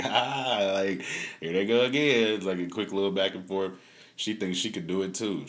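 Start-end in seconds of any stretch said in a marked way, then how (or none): 0.0-2.3 mock kid commentary. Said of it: "she's like".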